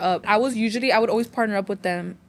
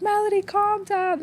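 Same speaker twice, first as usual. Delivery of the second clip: much higher-pitched mock teacher voice; imitated teacher; 11 semitones higher than usual. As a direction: call out like an exasperated teacher, pitched high. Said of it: "when the teacher was like".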